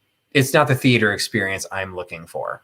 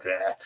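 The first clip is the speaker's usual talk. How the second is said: softer mimed gagging noise; mock gag; 2 semitones lower, 9 dB quieter than usual. Reacting to a sappy musical, mock gag. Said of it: "I was, like, gagging".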